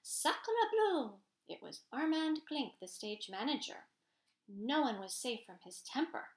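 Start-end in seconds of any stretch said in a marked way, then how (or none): 0.0-1.2 loud, high-pitched theatrical cry; frightful, booming exclamation; booming outburst. A narrator's reading. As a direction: boom it out like a furious stage manager. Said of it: "a frightful voice boomed".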